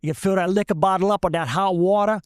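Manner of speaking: put-on Cajun accent, hurrying through the instructions; thick Cajun accent. Cajun shrimper teaching the bottle trick, thick Cajun accent. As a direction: imitate a Cajun shrimper on a roll. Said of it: "Bernard says in that thick Cajun accent".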